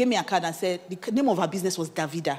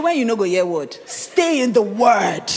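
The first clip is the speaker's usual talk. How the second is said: teasing husband; 7 dB louder, slower than usual. Retold or imitated. Husband laughing, teasing her.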